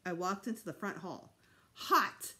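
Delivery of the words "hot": put-on high, loud childish shout; thrilled little boy calling out; excited cry. A narrator's reading. Little boy as seeker gets close, excited cry. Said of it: "Fudge cried".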